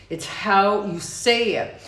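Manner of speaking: emphatic demo. Shown as a demonstration. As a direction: lean in with force.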